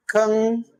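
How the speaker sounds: "Kankaran" broken into three separate schwa syllables, held high. Shown as a demonstration. Teacher writing it phonetically, syllable-by-syllable Kankaran. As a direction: sound out "Kankaran" as kuhng, kuh, ruhng, with pauses. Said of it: "This is phonetically".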